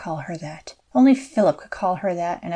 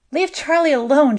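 higher and louder, forced out in fear; a mother pleading for her son; high, strained plea; desperate plea; 7 semitones higher, 5 dB louder than usual. A narrator's reading. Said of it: "she got out".

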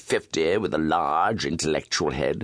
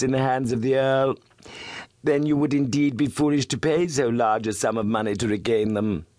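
a hint of a sly blackmailer; lightly voiced silky villain; smooth suave voice; 8 semitones higher than usual. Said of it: "His voice was as smooth and suave".

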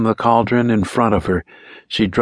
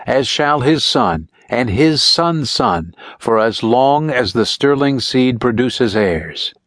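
slow, weighty chanting of the curse; slow intoned curse; 2 semitones higher, slower than usual. A narrator's reading. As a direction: lay out each generation slowly. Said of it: "tears streaming down her face".

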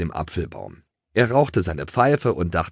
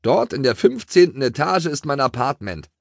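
mildly proud, higher pitched; 7 semitones higher than usual. A narrator's reading. Town mouse points up at the skyscraper, mildly proud. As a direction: show it off with a touch of pride. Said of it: "sprach die Stadtmaus stolz".

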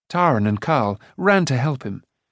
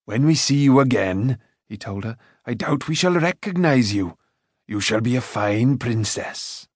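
lightly voiced Karl. A narrator's reading. Karl to Eilonwy, farewell. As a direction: bid her a fond goodbye.

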